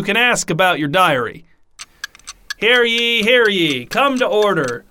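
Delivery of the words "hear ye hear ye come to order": town crier. Acted. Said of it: "Let the minutes show this".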